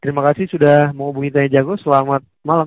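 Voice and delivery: cheerful scripted sign-off; polite call-centre farewell; customer service voice. Real, not acted. Agent scripted goodbye.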